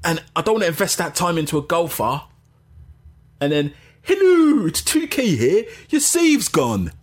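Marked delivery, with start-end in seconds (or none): 4.0-6.9 high announcer voice, slowing at the end; cheerful system voice breaking bad news; robotic game voice. Imagined game voice saying save lost.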